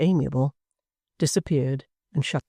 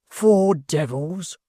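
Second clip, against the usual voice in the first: slow outraged cry; 2 semitones higher, much slower than usual. Acted. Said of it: "cried the hangman".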